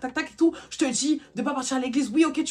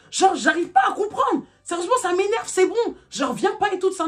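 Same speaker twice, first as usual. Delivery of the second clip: imitated shout; 6 semitones higher than usual. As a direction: bellow out his exasperation. Boyfriend yelling on the phone. (le copain crie, exaspéré)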